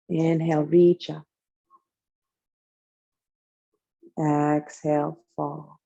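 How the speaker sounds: calm, even yoga-teacher cueing; measured, soothing instruction paced to breathing; guided yoga flow. Real, not acted. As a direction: cue each movement on the breath, leaving space between. Leads breath-timed yoga movements.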